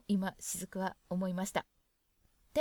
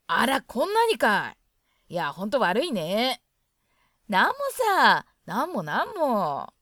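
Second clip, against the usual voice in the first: louder read dialogue between wife and guest; acted Hokkaido dialogue; 6 dB louder than usual. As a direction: voice both sides of a friendly Hokkaido chat. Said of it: "では、会話を読みます。". (妻と客人の会話を大きめの声で演じる)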